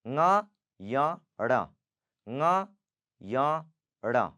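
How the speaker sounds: ng, yang, ण through mouth and nose; ng, yang, ण recited one by one, nasalised; nasal letter sounds. Shown as a demonstration. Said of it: "you have to pronounce from mouth and nose".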